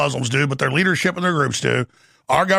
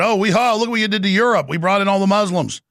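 mock bragging; 5 semitones higher than usual. Host mimicking lobbyists boasting about Europe, in a smug gloating voice. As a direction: sneer it out like a smug braggart showing off. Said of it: "the Israel lobbies bragging that".

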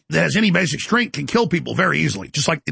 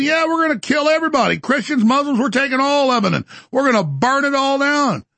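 higher, hammed-up gleeful villain; mock demonic Ben Gvir; 8 semitones higher than usual. Mocking a minister's threats, gleeful higher villain voice. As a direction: play a giddy cartoon villain bragging. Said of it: "he's, like, giggling, acting all demonic".

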